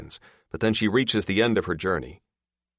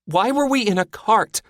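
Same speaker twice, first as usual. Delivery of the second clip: confused; 7 dB louder than usual. A narrator's reading. Confused after falling.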